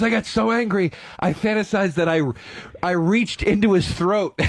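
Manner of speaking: worked-up imitation. College friend describing another hate fantasy, mock worked-up. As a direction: play the enraged friend, amused underneath. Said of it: "he would get so worked up".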